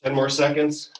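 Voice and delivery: loud coaching call. Real, not acted. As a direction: call it out over the workout. Coach calling out during exercise.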